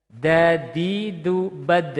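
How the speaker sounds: "Dadidu" bounced in a sing-song; wrong bouncy d. Shown as a demonstration. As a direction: sing "Dadidu" like a nursery tune. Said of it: "bukan dadidu".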